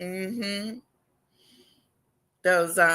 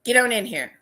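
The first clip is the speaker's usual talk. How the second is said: streamer greeting; 5 semitones higher, faster than usual. Retold or imitated. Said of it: "One guy says".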